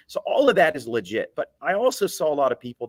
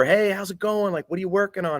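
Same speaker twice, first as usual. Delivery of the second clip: yelling over; 7 semitones higher than usual. Retold or imitated. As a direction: friendly call to a neighbor next door, pitched up. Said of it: "yell over".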